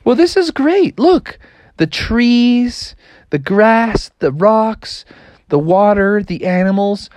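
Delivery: high, eager little frog; high proud froggy voice; excited frog voice. Acted. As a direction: show off his discovery to friends. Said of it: "And Froggy was like".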